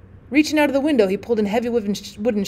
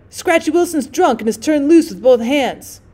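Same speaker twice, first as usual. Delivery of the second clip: urgent cry; 4 semitones higher, 4 dB louder than usual. Acted. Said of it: "He cried".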